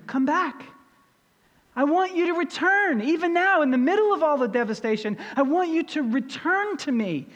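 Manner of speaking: voicing God, high and urgent plea; God pleading. Preacher voicing God calling his people back. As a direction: call them home as God would.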